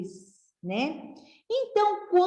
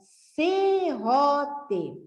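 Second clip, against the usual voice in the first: serrote said slowly and whole; teacher joining the syllables into serrote; slow blended word; 2 semitones higher than usual. Shown as a demonstration. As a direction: draw serrote out as one word. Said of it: "ficou C mais ro mais T".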